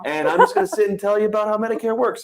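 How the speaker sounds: easy, fast friendly pitch; relaxed and reassuring. Retold or imitated. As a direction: lull the client, beach vibe. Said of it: "You come off as like".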